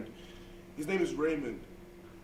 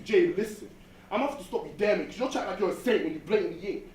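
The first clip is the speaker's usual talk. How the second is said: angry; 3 semitones higher, 5 dB louder than usual. Acted. Angry retort to girlfriend.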